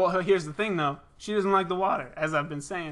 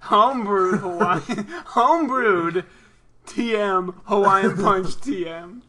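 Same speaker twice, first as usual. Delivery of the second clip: slow, laughing repeat; 4 dB louder, slower than usual. Real, not acted. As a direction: drag it out while laughing.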